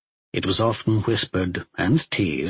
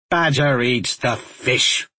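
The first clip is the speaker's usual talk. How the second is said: slow, stubborn gruff grumble; gruff huffing badger; slower than usual. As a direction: dig in like a stubborn old grump.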